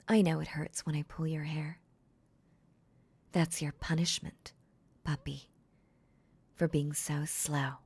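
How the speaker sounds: hushed, stern mistress; cold mistress voice. Acted. Mistress punishing her puppy.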